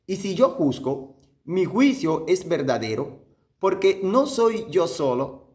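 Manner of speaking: measured scripture reading with pauses between phrases; unhurried, so each phrase sinks in; slow, deliberate reading. Shown as a demonstration. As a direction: read the verse slowly, phrase by phrase. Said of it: "bien despacio".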